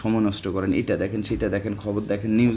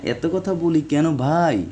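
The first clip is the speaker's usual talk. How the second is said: real irritation; 3 semitones higher than usual. Real, not acted. Teacher answering viewers who complain he talks too much, irritated. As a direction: let annoyance show, drawing out the question. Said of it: "মেজাজটা খারাপ হয়ে যাচ্ছে".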